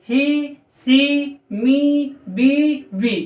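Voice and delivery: "he", "she", "me", "we" each with a long, drawn-out ee; teacher's long ee demonstration; long ee vowel. Shown as a demonstration. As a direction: stretch the ee sound at the end of each word. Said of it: "लंबा उच्चारण किया जा रहा है".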